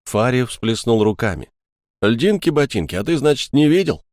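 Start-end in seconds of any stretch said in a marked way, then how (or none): 2.0-4.1 indignant, higher-pitched retort; exasperated. A narrator's reading. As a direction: force out an exasperated question. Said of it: "протолкнул сквозь зубы".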